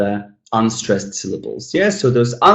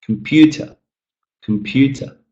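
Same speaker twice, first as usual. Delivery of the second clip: comPUter with raised pitch on PEW; stressed second syllable; 3 semitones higher than usual. Shown as a demonstration. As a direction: lift the middle of "computer". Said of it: "So again".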